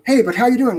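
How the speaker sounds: high, casual stranger's hello; friendly street greeting. Retold or imitated. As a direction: greet him like a friendly passer-by. Stranger greets him again.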